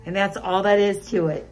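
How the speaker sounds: slightly muffled mask speech; talking behind surgical mask; through a face mask. Real, not acted. Seen 2: Masked assistant speaks; tray is in patient's mouth, not speaker's.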